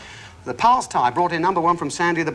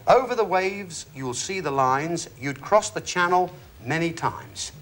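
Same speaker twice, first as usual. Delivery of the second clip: slow, deliberate verse reading; riddle rhyme recital; slower than usual. Acted. Host repeating a clue for contestants, slow deliberate rhyme. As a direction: read the clue out slowly, line by line.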